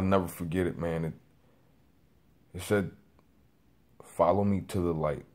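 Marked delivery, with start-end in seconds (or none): 4.0-5.2 hushed, measured divine voice, lightly voiced; voice of God. Man retelling the voice he heard in his ear, lightly imitated calm tone. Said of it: "It said it in that specific tone".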